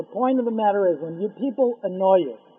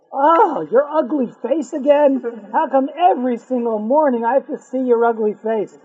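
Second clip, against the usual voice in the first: higher, louder, blunt scorn; rude insult; 3 semitones higher, 4 dB louder than usual. Acted. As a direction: sneer at the maid. Man insults the maid.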